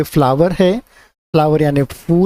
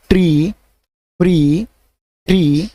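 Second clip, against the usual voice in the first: model reading for repeating; slower than usual. Shown as a demonstration. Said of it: "ये जिस तरह से मैं बोल रहा हूँ".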